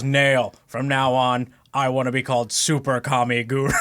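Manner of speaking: lightly imitated self-important guru. Guru addressing his assistant Nail, lightly voiced parody character. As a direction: announce a grand new title, half in character. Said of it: "like, assistant and he goes".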